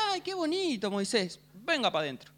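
cooing princess. Retold or imitated. Pharaoh's daughter coos over baby Moses, light sweet voice. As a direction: coo over the baby like a lady. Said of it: "lo agarran y dice".

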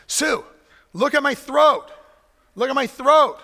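hammed-up whine of a man with a sore throat; a grown man begging his wife to check his sore throat; whiny sick husband. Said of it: "I say".

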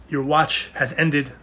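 lightly voiced solemn pronouncement, slow; a hint of a grave Night's Watch farewell; slow, weighty line with the voice barely changed; Game of Thrones quote. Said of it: "to reference, uh, Game of Thrones".

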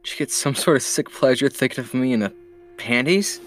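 lightly teasing question; mock-suspicious ribbing. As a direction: tease a friend, pitch up slightly at the end. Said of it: "he teased".

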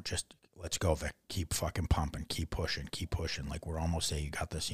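quiet, human-level coaxing; soft encouragement. Retold or imitated. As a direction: imitate a sergeant's private pep talk. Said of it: "soft so that no one else heard".

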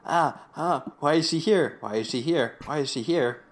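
lightly acted fretful panic; mock freak-out. Eugene at his mom's tombstone, mild mock panic. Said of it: "Eugene starts freaking out".

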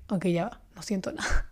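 soft, fading, emptied-out voice; numb after crying. Retold or imitated. After crying, describing feeling numb and drained, soft. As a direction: let it go quiet and drained. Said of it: "me quedo así como en un estado de".

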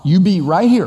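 firm stress on "right here"; making it really clear. Retold or imitated. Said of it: "I'm gonna make it really clear".

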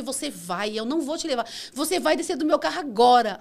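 retold firm, rising command; angry order. Driver orders the passenger out of her car, angry.

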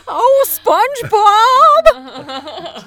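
put-on very high, loud, slow kid voice; cartoon fish kid voice. Shown as a demonstration. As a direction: call out like a little cartoon fish. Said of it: "He talked like this".

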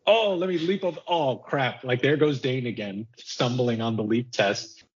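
high mock voice fading back down; clumsy old king. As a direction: ham up a hapless old hero tripping. Voicing old Dane stumbling.

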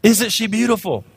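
a hint of his crying wife's voice over the baby; imitating his tearful wife. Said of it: "and Leanne's crying, and she's like".

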